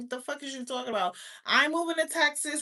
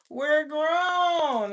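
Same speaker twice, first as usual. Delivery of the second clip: shout; 3 semitones higher, 5 dB louder than usual. Real, not acted. Ranting at viewers, shouts.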